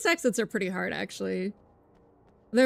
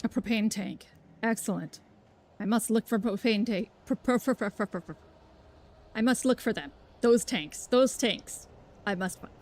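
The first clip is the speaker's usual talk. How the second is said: put-on loose Southern accent, more Georgia than Texas; attempted Texas accent. Player hunting propane tanks in game, attempted Texas accent. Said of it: "Georgia accent, not a Texas accent".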